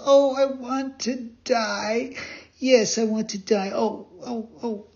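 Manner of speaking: put-on high-pitched puppet boy, wailing in grief; sobbing lament. Pinocchio grieving to the dead fairy, high sobbing lament. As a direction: plead through mock sobs in a high little voice. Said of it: "And as he sobbed".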